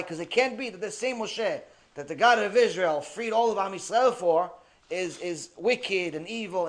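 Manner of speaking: usual speaking voice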